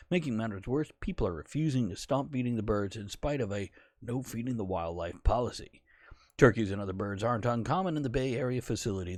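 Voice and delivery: lightly put-on newsreader delivery; newscast voice. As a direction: read it like a TV news anchor. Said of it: "let me try my, my newscast voice".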